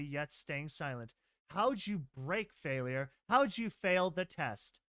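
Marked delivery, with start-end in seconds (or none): 1.5-4.8 drawn-out, creepy interrogation; slow menacing question. Acted. Gentle grilling the frightened filly, slow and menacing. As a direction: lean in and ask slowly, with menace.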